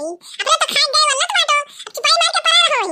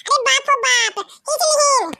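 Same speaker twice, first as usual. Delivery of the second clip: mock crying. Wife complains quilt taken.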